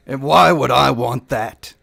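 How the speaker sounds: lightly voiced cocky elf; card sharp gloating over the dice; smug elf gambler.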